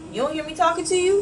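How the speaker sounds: imitating the pushy catcaller; mock pushy catcaller. Mock pushy catcaller.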